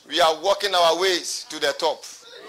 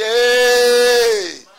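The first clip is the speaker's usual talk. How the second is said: mock fretful cry; 4 semitones higher, 7 dB louder, much slower than usual. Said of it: "Doesn't run around and say".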